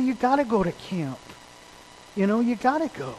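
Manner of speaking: retold earnest persuasion; urging plea. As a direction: plead with him without raising your volume. Pleads with reluctant kid to go.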